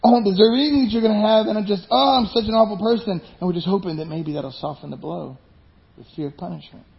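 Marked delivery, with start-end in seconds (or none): 0.0-3.2 self-pitying before God. Retold or imitated. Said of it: "we're like".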